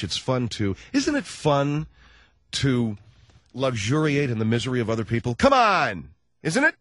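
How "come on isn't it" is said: loud, higher exclamation; goading. Real, not acted. Host urging listeners to admit it, goading. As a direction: call it out to egg them on.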